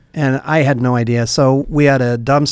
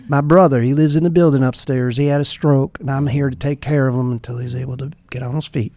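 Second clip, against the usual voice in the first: put-on Southern accent. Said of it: "he had, like, an accent".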